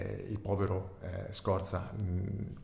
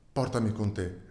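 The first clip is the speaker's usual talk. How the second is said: pleading; 4 dB louder than usual. Acted. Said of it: "lo supplicò".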